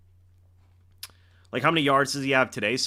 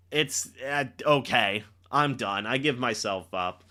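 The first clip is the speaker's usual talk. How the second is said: imitating player giving up; 6 semitones lower, 4 dB quieter than usual. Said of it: "and then just said".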